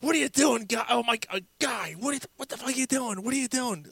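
very high, strained voice mimicking helpless laughter; hammed-up laughing protest; imitated hard laughing. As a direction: squeal it like a friend cracking up. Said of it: "he laughed so hard".

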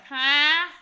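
loud, high imitated "huh"; startled awake. Friend is woken from sleep, imitated loud startled reply. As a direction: blurt it as if just woken.

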